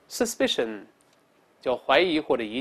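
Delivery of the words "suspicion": "suspicion" with stress on -spi-; model reading. Shown as a demonstration. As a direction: read "suspicion" clearly for the class. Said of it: "我们大声来念". (示范朗读suspicion，重音在第二音节)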